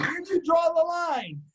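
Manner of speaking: high, drawn-out mock shout; high-pitched indignant holler; shouted challenge. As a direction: cry it out slowly as a retold challenge. Retold quarrel, challenging back.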